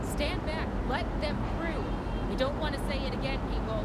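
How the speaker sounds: far-off shouts over the crowd; distant shouting. Acted. Reporter yelling at the crowd from a distance, heard far off. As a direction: yell from across the scene, off mic.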